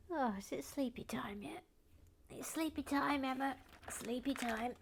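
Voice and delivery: playful sing-song, teasing a friend to bed. Pretend. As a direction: tease her like a child at bedtime. Teasing chat member about bedtime.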